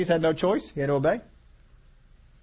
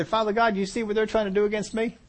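laughing confident prayer; 4 semitones higher than usual. Retold or imitated. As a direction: laugh at the enemies while praying. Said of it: "get out there and say".

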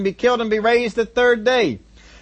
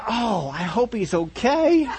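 mock concern; 3 semitones higher, 4 dB quieter, slower than usual. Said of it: "and you say".

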